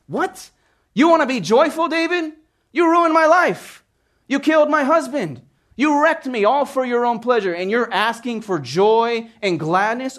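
high, loud accusing outcry; indignant Bathsheba. Retold or imitated. Bathsheba confronting David over her husband, high angry outcry. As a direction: throw his crimes back at him, outraged. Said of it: "Can only imagine her thoughts".

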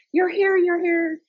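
put-on high, loud and slow, a thrilled little girl; excited child squeal. Little granddaughter greeting her grandma, excited squeal. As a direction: squeal it like an excited five-year-old.

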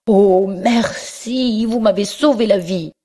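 high, very slow oh merci; overjoyed thanks. A narrator's reading. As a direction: gush with grateful relief. Giacomo remercie, plein de joie. (remerciement aigu, ému et lent)

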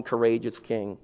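ordinary delivery

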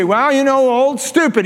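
a hint of a dismissive father talking down; mocking father. Father sneering about his older son, lightly voiced scorn.

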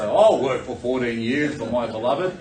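lightly mock a lovestruck volunteer; romantic suitor. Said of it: "you romantic guys out there will say".

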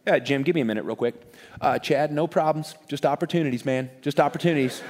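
low, quiet, offhand boss mid-call; brush-off boss on phone. Retold or imitated. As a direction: murmur a quick aside, barely interested in the problem. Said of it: "he'd be like this".

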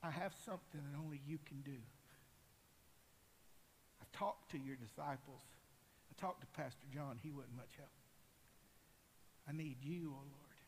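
low, soft, earnest prayer; subdued, intimate appeal; quiet pleading. Acted. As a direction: confide your need to the Lord, with long pauses. Blind man's inner plea to Jesus.

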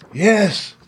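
high, plaintive tin-man voice; sad Tin Man. A narrator's reading. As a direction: answer high-pitched and sorrowful. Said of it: "the sad voice in which the man spoke".

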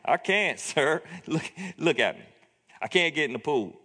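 a little sarcastic, fed-up reply; sick and grumpy, answering a dumb question; mild sarcastic sick-man grumble. Retold or imitated. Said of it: "but in a particular tone".

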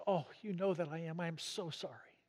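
soft, understated imitation of tearful remorse; hushed contrition, dropping away at the end; retold tearful apology. Jailed wife telling the vicar she repents, retold tearful. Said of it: "Through the tears".

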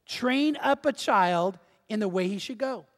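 slow, measured reading with a pause midway; slow scripture reading. Shown as a demonstration. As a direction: read the verse out slowly, phrase by phrase. Reads the verse slowly first.

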